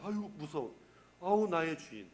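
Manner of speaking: cowed submission. Acted. Voices the cowed demon submitting.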